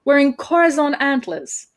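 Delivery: acted mortified realisation; indignant disbelief. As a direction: stretch it out in high disbelief. Indignant question continues.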